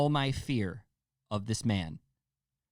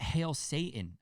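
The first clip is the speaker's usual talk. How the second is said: lightly mimicked killer, pitched up; a hint of his high voice; imitated killer's taunt; 5 semitones higher, slower than usual. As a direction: quote him in a slightly raised voice. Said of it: "the way he said it".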